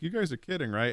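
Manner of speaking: put-on high, pleading kid voice; light child imitation; hopeful kid. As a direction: mimic a boy hoping it's a joke. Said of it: "he's like".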